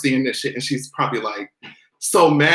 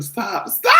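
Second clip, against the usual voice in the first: laughing shout; 5 semitones higher than usual. Real, not acted. Laughing outburst.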